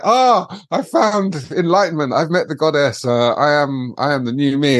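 high-pitched, self-mocking revelation; mock enlightened rapture. Reborn partygoer boarding the flight, mock rapture. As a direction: play up the born-again bliss, voice lifted high.

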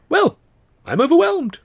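high, loud overwhelmed gush. A narrator's reading. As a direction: gush with theatrical delight. Luscombe flattered, gushing.

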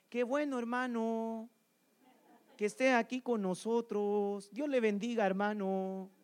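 light imitation of a Mexican accent, slow and a bit sing-song; preacher imitating Mexican brothers welcoming him, mild Mexican lilt; Mexican church greeting. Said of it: "hablaban así como medio cantadito".

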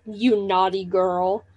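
low, drawn-out creepy line; imitated male character. Retelling his line to Marnie, imitated male character. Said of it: "he is like".

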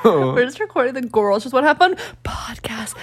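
secretive whisper. Pretend. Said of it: "Why are you talking like that?".

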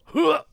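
short high punchy huh; big huh grunt. Pretend. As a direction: pop it out like a tennis grunt. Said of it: "start this podcast off with a big ol'".

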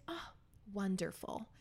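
lightly mimicked, soft customer-service lilt; imitated phone voice. Host imitates her friend on the phone, lightly put-on professional lilt. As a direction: softly mimic a professional phone voice, lifting at the end. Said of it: "my airline attendant voice".

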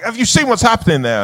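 high-pitched alarmed retelling; mock alarm, pitched well up; imitated belting out. Appalled actor telling a colleague about the toilet, mock alarm. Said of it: "He's going belting out".

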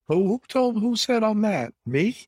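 high-pitched disbelief, stumbling over the question; taken aback. Real, not acted. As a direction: protest as if wrongly accused. Disputes being called caustic and sarcastic.

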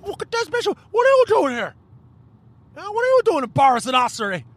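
high, slurred mock drunk; hammed-up drunk in a high voice; drunk heckler. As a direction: squeal it like a drunk pest at the window. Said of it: "some drunk fucking ass going".

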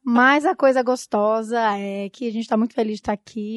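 hoarse, voice almost gone; losing her voice. Real, not acted. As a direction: speak through a worn-out voice. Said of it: "E eu tô sem voz, gente". (quase sem voz, rouca)

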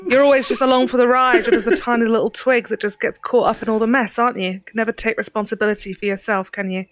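soft Cockney telling-off, lightly voiced; a light Cockney scold, mocking. Ceridwen telling off the prisoner, soft Cockney. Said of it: "A soft Cockney accent".

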